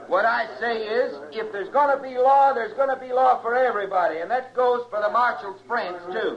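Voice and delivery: fierce rabble-rousing yell; angry shout. Acted. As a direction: preach rough justice to the crowd. Mob leader stirs up the crowd.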